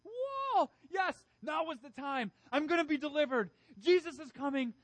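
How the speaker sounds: high, loud jubilant shouts; excited crowd cheering. Retold or imitated. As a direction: cheer like a crowd expecting a king. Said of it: "They're like".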